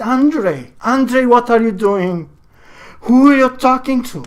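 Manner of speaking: high, loud, frightened calling of his name; wife startled awake, calling out in alarm. Acted. Wife finding her husband talking to a chair, high and loud with fear.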